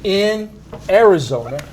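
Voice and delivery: Spanish-accented elite; Latin accent. Shown as a demonstration. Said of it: "that's my Latin accent".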